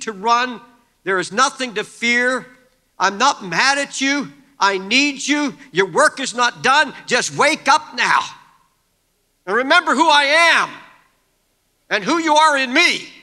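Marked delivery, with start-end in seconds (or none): 3.0-13.1 raised, urging voice; God urging Elijah, rising to a shout; God's call to wake up. Acted. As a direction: call him back, loud and earnest. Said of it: "He's saying".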